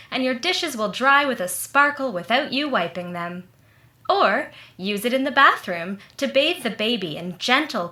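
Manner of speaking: smooth radio announcer pitching soap; old-time radio commercial read. Acted. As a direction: sell it like a forties radio pitchman.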